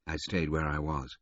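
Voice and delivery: ordinary delivery, nothing marked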